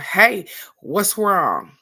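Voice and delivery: slow, worried answer; concerned phone greeting. Retold or imitated. Woken at dawn answering the phone, slow and concerned. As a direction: draw it out, worried for the caller.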